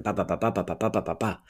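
beating out a rhythm; rhythmic ba ba. Shown as a demonstration. Teacher beating out a speaking rhythm on ba. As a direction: tap out the beat on ba. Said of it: "the rhythm".

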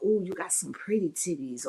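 dirty talk whisper. Shown as a demonstration. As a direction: whisper it like a tease in bed. Demonstrating dirty talk lines.

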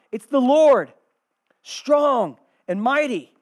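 loud, high, slow proclamation; herald's cry. Acted. Herald before the king answering the gatekeepers, crying out. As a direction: proclaim it forcefully, leaning on each big word. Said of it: "cries out".

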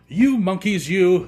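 high, loud storybook scolding; scolding peddler. A narrator's reading. Peddler shaking his finger at monkeys, scolding. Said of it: "he spoke to them".

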